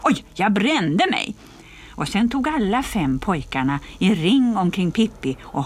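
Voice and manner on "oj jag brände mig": jeering mock ouch; mock pain. Bully Bengt faking a burn from her red hair, mock ouch. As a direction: pretend to get burnt, teasing.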